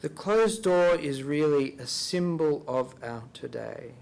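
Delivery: slow, reflective repeat of a key line; unhurried contemplative reading. Real, not acted. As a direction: let each word of the quote sink in. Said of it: "I'll read this slowly".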